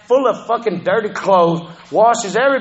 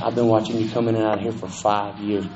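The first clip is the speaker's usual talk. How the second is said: put-on old lady; 9 semitones lower, 6 dB quieter than usual. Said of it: "this old lady came up to me".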